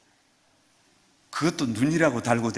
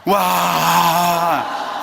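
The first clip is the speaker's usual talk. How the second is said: wow; 2 semitones higher, 6 dB louder than usual. Shown as a demonstration. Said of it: "손을 들어보세요".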